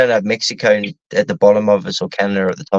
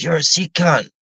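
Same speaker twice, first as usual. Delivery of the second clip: quoted Aussie slang; 4 semitones higher than usual. Retold or imitated. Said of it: "the phrase we all coin these days".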